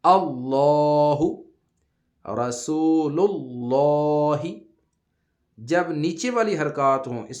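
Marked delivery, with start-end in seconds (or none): 0.0-4.4 اللہ with full, heavy لام, drawn out and louder; heavy lam. Shown as a demonstration. Teacher showing the heavy lam of Allah, slow and loud. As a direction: make the لام in اللہ thick and round. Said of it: "پر پڑھتے ہیں،".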